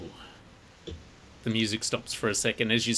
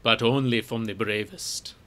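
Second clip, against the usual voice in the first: put-on stranger's foreign-accented English; thick foreign accent. Cloaked stranger seeking brave helpers, thick accent. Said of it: "he says in a thick accent".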